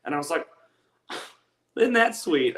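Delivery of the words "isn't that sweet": mock sweet. Reacting, sarcastic high loud.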